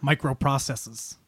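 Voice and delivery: lightly put-on bad Boston accent; terrible Boston accent. Guessing what the company made, in a terrible Boston accent. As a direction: do a poor Boston accent with a slight lisp. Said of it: "that was just a terrible, uh, Boston accent".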